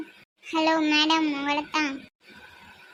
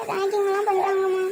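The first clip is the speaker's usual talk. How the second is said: mildly tearful whine; acted crying; 2 semitones higher than usual. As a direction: complain to mother as if crying. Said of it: "இது போய் அழுதுகிட்டு இருக்க". (அழுதபடி புகார் சொல்வது போல்)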